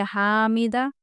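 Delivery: हामिदा with the final आ stretched; wrong lengthened vowel. Shown as a demonstration. Teacher showing pupils another error in हामिदा. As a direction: drag the end of हामिदा wrongly. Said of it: "यहाँ पे अलिद बढ़ जा रहा".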